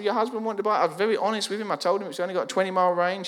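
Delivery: high-pitched, retold self-defence; defensive protest. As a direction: plead your case to an angry customer. Defends himself to angry wife.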